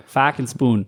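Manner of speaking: fucking spoon, Boston vowels, trailing off; Boston accent. Shown as a demonstration. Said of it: "kinda do a Boston accent".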